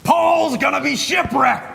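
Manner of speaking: dramatic announcement. Acted. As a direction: announce it like big news.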